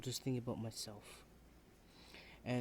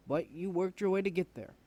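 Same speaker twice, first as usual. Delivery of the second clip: frustrated outburst; 6 semitones higher, 7 dB louder than usual. Acted. Student venting at professor.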